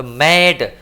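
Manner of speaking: मैड with a long open "ae"; model pronunciation. Shown as a demonstration. Teacher shows the vowel to class, model pronunciation. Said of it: "मै में क्या है".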